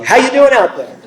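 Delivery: high mock stage holler; comic, high-pitched greeting to the back rows; a veteran rock singer between songs. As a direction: imitate the crabby singer hailing a crowd. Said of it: "such an old crab when he talks".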